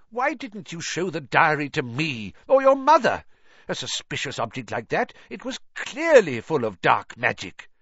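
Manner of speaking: high, loud exasperated scolding; a shocked father lecturing his daughter; flabbergasted. A narrator's reading.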